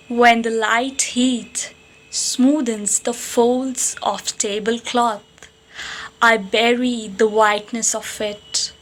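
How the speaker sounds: measured poetry reading with long pauses between phrases; poem recitation. Acted. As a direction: recite line by line, letting each image settle. Recites own love poem.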